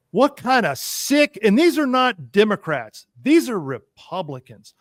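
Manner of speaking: real exasperated loud rant; getting loud. Real, not acted. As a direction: let the anger push the volume up. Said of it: "I know I'm getting loud".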